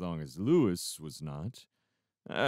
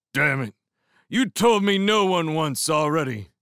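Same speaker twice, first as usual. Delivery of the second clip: raised, high-pitched angry protest; angry outburst; 6 semitones higher, 5 dB louder than usual. A narrator's reading. Drunk Foss argues back at the woman, angrily loud. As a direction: burst out louder in protest.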